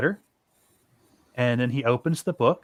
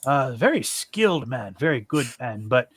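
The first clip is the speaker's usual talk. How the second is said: a weird, loose attempt at an Irish lilt; hint of an Irish accent; almost Irish accent. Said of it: "a weird, almost Irish accent for him".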